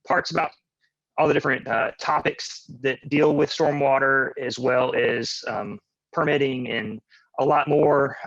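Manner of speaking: choppy, staticky robotic call audio; robotic breaking-up connection. Real, not acted. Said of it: "your voice is coming out a little bit robotic".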